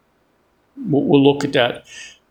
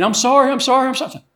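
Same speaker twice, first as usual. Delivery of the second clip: higher-pitched, repeated pleading, lightly imitating someone crying; imitated tearful apology; 8 semitones higher, faster than usual. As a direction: retell a tearful man's rushed apology. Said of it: "He's crying".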